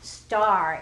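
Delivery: Star said loud and clear; stressed word. Shown as a demonstration. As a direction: punch the word Star for kids to hear. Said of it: "do you hear an R sound there".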